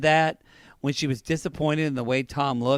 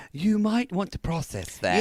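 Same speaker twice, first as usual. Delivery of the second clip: slightly higher, put-on British accent; 5 semitones higher than usual. Co-host repeating it so he'll get it, British accent. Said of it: "I'm gonna say this in a British accent".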